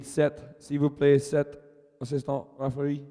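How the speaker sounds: mock French accent for the call. Announcer jokingly calling for an assistant referee, French accent. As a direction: put on your best French accent. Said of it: "In my best French accent".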